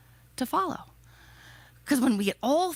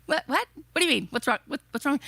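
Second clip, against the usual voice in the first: baffled; 3 semitones higher, much faster than usual. Retold or imitated. Speaker's baffled reply to the passenger.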